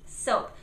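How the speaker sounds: "Soap" with a clean S; crisp S in "Soap"; correct S. Shown as a demonstration. Teacher repeating correct "Soap". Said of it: "It's behind your teeth".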